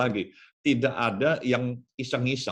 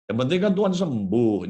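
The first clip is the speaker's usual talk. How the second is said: gentle coaxing; 4 semitones lower than usual. Acted. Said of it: "prajuritnya kasih tahu".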